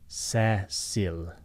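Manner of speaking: "Cecil" again, C as s; name Cecil. Shown as a demonstration. Teacher repeating Cecil's s sound. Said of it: "is an S sound".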